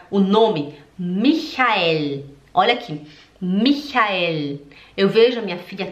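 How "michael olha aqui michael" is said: Michael with a throaty ch; German demo. Shown as a demonstration. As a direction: show Michael clearly. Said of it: "Quando você for falar a palavra". (Michael em alemão)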